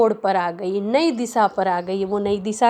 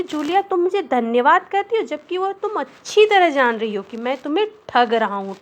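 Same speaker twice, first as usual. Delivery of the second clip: angry master; 5 semitones higher than usual. Acted. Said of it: "वह कह रहा है".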